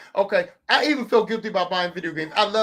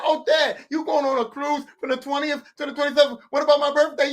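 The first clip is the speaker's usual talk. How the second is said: higher-pitched imitation of a griping child; complaining kid; 5 semitones higher than usual. Kid griping to Dad about his cruise dates, mock complaining. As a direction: mimic a kid protesting to Dad.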